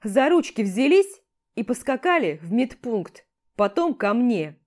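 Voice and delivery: loud, gruff orders; commander yelling. Acted. Commander sends both to the medic and threatens dismissal, loud orders. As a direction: bark out the punishment, fed up.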